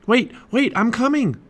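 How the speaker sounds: high, loud call to wait; urgent call. A narrator's reading. Jack calls after his departing sister, urgently. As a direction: call after someone who is leaving.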